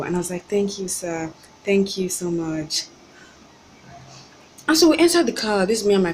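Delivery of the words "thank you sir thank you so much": polite thanks. Retold or imitated. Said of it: "trying my best to be very polite".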